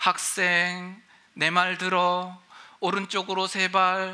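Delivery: very slow, drawn-out, spooky ghost voice. Telling a story of a student crossing a mountain at night, a ghost speaks: ghost voice. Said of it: "갑자기 귀신 목소리가 들린 거예요".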